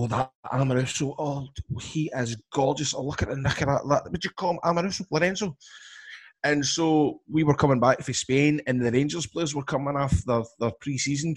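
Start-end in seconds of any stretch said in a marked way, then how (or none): 0.0-5.5 mum swooning. Retold or imitated. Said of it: "my mum used to go".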